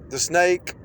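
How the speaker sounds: snake with a long hissing s; drawn-out s like a snake. Shown as a demonstration. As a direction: draw out the s in snake. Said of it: "notice when I said snake".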